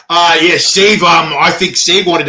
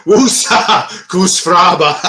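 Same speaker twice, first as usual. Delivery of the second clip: laughing echo; 3 semitones higher, much slower than usual. Real, not acted. Mocking a catchphrase.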